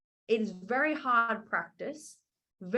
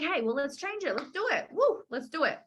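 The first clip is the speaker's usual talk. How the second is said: building to a high, louder woo; hyped encouragement; 6 semitones higher, 4 dB louder than usual. Retold or imitated. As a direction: cheer them on, rising. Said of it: "I'm like".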